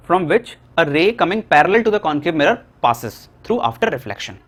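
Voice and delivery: very slow, word by word for note-taking; slow teacher dictation of the definition. Shown as a demonstration. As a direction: dictate slowly so students can write. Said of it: "मैं धीरे धीरे बोल रहा हूँ".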